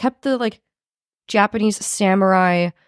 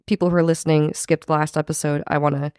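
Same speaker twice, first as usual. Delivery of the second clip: vocal fry; 2 semitones lower than usual. Real, not acted. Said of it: "that's why I sound like this".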